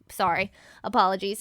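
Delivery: low mock man voice. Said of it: "your man voice".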